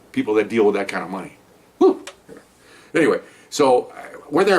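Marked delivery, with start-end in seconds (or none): 1.8-2.1 short, high whew of amazement. Real, not acted. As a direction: let out a quick impressed whew. Amazed at the amount of money.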